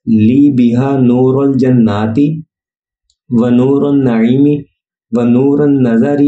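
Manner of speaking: slow, measured Arabic recitation in short, separated phrases; durood recitation. Shown as a demonstration. Reciting the durood for listeners to learn its correct pronunciation, slow careful recitation. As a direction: recite slowly and carefully, pausing after each phrase. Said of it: "درود شریف سنیے".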